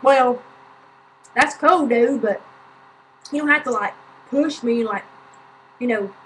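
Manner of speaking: imitated passive-aggressive complaint, starting loud; mock a pointed, put-upon objection. Woman scolds man for shoving her, mimicked passive aggression. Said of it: "She's, like, really passive aggressive".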